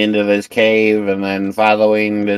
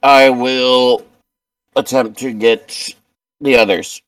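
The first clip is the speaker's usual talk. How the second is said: raised, projected in-character command; louder, higher acted orders at first, easing off; urgent instructions; 5 semitones higher, 5 dB louder than usual. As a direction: direct them out urgently. Character giving urgent rescue orders.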